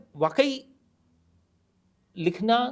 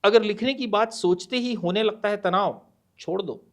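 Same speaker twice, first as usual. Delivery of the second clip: poem recitation; 4 semitones higher, faster than usual. Acted.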